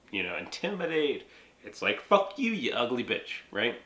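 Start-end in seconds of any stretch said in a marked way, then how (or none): 2.0-3.4 abusive swear. Shown as a demonstration. Demonstrating an abusive swear, mock insult. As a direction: spit it out to hurt someone. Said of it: "that is an abusive swear".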